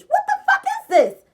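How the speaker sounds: can't believe it, cracking up; laughing disbelief. Retold or imitated. Realizing the paper is a contract, laughing disbelief.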